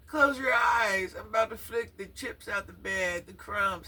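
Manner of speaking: high, loud, slow mock command; mocking the mother. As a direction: belt it out like a bossy mom mocking her.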